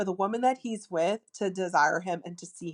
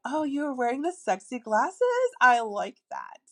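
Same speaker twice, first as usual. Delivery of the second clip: flirty demo; 3 semitones higher than usual. Shown as a demonstration. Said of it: "use your womanly wiles".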